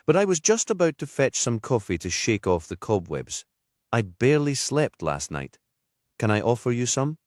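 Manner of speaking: a hint of a Geordie lilt, chatty and tired; vicar's voice. Anna, vicar from Newcastle, narrated.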